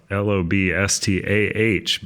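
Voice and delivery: spelling it out Boston style, dropping the r; Boston accent. Shown as a demonstration. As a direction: LOBSTAH with a Boston a, no r. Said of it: "because you know we're in Boston".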